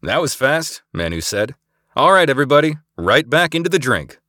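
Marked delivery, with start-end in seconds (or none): 0.0-0.8 high, elated exclamation; whooping. A narrator's reading. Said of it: "Manu whooped". 1.9-4.2 much higher, louder rallying shout; rallying call. A narrator's reading. Rallying crew before jump.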